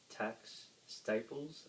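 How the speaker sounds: usual speaking voice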